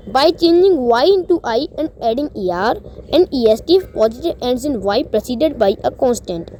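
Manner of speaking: reading the rule at half speed, word by word; slow rule reading. Acted. Teacher reading a grammar rule to students, slow dictation pace. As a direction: read it out slowly like dictation.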